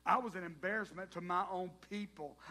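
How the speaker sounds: Matthew's confession gaining force; rising confession. Acted. Matthew's confession, repeated louder.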